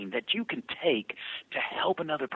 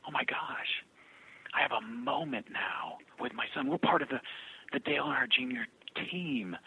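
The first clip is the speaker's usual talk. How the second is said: soft, hushed, overcome; retold tearful gratitude; 3 semitones lower, 6 dB quieter than usual. Mary on the phone about her son, hushed and overwhelmed. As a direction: gently imitate a mother moved to tears. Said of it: "she's crying on the phone".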